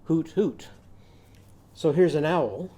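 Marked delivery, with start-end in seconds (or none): 0.0-0.7 owl hooting. Shown as a demonstration. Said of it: "our owl is going to be saying".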